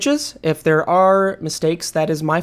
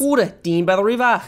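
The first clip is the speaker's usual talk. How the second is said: Australian accent; 2 semitones higher than usual. Shown as a demonstration. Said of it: "only thing I know how to say in Australian".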